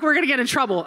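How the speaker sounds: mildly panicked pleading; a touch of acted panic. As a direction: fret about getting caught. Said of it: "then I'm panicked".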